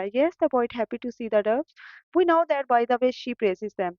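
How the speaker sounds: reading the answer very slowly and clearly; slow dictation read. Shown as a demonstration. Teacher dictating workbook answers to students, slow and clear. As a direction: spell it out word by word for students to copy.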